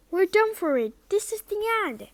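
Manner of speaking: high, loud panicked lament; despairing wail. Acted. Ron trapped at a locked door, high panicked moan. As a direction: cry out that all is lost.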